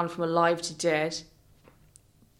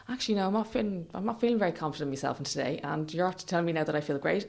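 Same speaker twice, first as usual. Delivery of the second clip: inner monologue; 5 semitones lower, 8 dB quieter, faster than usual. Retold or imitated. Retelling her inner thoughts while walking.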